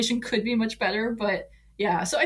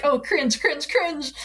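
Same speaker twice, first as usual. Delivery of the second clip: cringing; 6 semitones higher, slower than usual. Real, not acted. Cringing at old slang.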